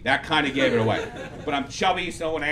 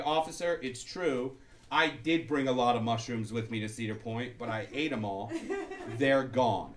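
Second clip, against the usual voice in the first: hushed confession; 5 semitones lower, 7 dB quieter than usual. Retold or imitated. Confessing to police, voiced.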